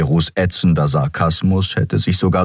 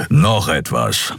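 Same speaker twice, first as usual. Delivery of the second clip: grumbled; slower than usual. Acted. Keru grumbles one more demand to Endriel, slow. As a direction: grumble it out slowly. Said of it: "brummte er".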